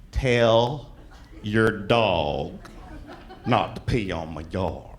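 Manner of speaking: low, slow talking-down voice; slow and condescending. Retold or imitated. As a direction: spell it out like to an idiot. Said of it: "answers me back slowly like an".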